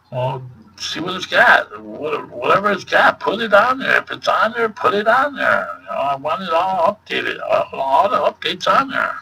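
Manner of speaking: high-pitched, exasperated retelling of a demand; exasperated insisting. Retold or imitated. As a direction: insist with rising pitch, fed up with the clerk. Acted argument with store clerk, insisting.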